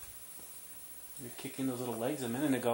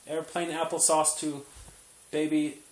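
playful air traffic call; radio chatter to the tower; pilot radio voice; 5 dB louder than usual. Pretend. Pilot radio talk to baby.

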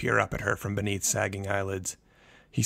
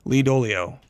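panicked; 4 semitones higher, 8 dB louder than usual. A narrator's reading. Panicked mother on phone.

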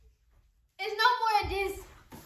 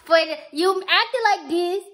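slow, emphatic scolding; mad; 5 dB louder, slower than usual. Real, not acted. Girlfriend calling boyfriend childish for his prank, mad. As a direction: scold him with mild anger, dragging the words. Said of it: "Why you so mad, though?".

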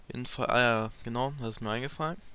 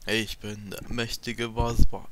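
slow, louder, puffed-up boss voice; mock villain boast; 8 dB louder, much slower than usual. Player mocking the boss Baspa, a slow loud mock boast. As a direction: ham up a grand enemy boast, slowly.

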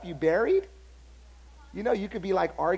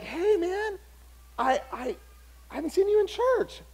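much higher surprised hello; mock cheerful greeting; 10 semitones higher than usual. Pastor greeting a man who left his church, much higher and bright.

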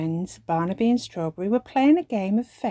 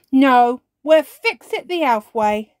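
put-on elf boy voice; 5 semitones higher, 8 dB louder than usual. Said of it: "says Barnaby".

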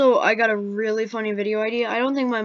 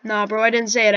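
loud denial; 6 dB louder than usual. Real, not acted. Denies swearing, loud.

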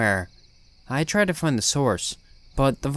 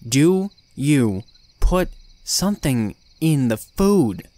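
louder, pressing the question hard; forceful demand; 2 semitones higher, 4 dB louder, slower than usual. Retold or imitated. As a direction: demand an answer, voice raised. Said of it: "Now, listen here".

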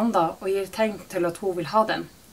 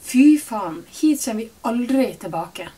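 louder, higher outburst; furious curse; 4 semitones higher, 8 dB louder than usual. A narrator's reading. Mother leaving the shop, furious and loud. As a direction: spit the curse out in fury.

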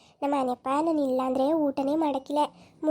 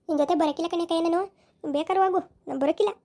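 put-on higher, sulky, complaining young woman; sulky young wife; 3 semitones higher than usual. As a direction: pout and protest like a wronged young wife. (ಮುನಿಸಿಕೊಂಡ ಯುವತಿಯ ಧ್ವನಿ)

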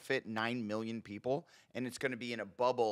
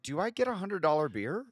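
higher, rising eager question; mock rich tourist; 6 semitones higher than usual. Imagining a rich visitor in Monte Carlo, mock eager question. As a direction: put on a touch of mock eagerness. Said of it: "You're like".

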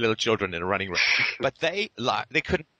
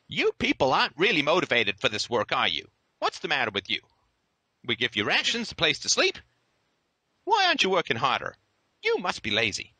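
higher, scolding mock concern; sarcastic guard; 5 semitones higher than usual. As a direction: chide the prisoners with fake surprise.

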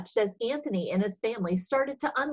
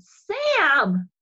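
high, loud startled call; alarmed cry; 7 semitones higher, 6 dB louder than usual. Acted. Sister calling out to her brother in alarm, high and loud. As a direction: cry out his name in shock.

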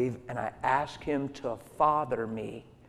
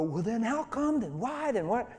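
much higher, pleading whine; high mock complaining voice; mock bewildered questions; 9 semitones higher than usual. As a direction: act out a baffled believer asking why. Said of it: "and then you don't go".

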